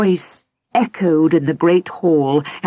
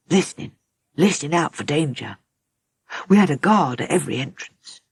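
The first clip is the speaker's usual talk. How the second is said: heavy, sad telling; faster than usual. Acted. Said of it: "His voice was heavy and sad, as if telling a story".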